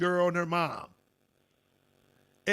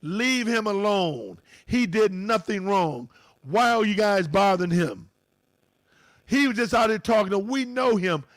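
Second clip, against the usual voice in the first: mild mock yell of a woman shielding a friend; retold scream. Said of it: "the white lady was screaming".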